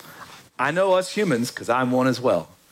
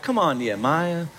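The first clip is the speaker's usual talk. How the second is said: mock whining. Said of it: "the people whining like".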